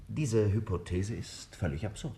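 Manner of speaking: slow, portentous pronouncement; dramatic. Acted. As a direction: lay it on slowly, like a grand revelation. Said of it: "halt uns bitte keine dramatischen Reden".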